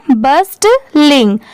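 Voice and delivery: बर्स्टलिंग slowly, both halves clearly sounded; teacher's measured बर्स्टलिंग; two halves joined. Shown as a demonstration. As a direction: join बर्स्ट and लिंग carefully into बर्स्टलिंग. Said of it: "दोनों मिला देंगे तो क्या हो जाएगा?".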